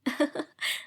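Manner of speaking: big open laugh; hearty laugh. A narrator's reading. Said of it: "रमल ने जोरदार कहका लगाया".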